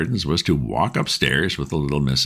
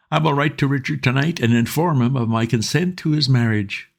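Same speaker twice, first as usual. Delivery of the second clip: put-on higher old lord voice; a fussy peer giving in graciously; 11 semitones higher than usual. A narrator's reading. Old lord granting consent to Wooster, higher voice.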